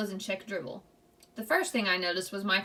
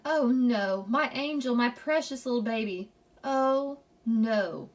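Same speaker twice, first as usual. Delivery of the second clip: moaning; 4 semitones higher, 3 dB louder, slower than usual. A narrator's reading. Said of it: "My mother moaned".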